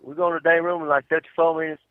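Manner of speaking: put-on goofy stab at an Australian accent; attempted Australian. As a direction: try it like an Aussie, coming out country. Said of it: "how you say".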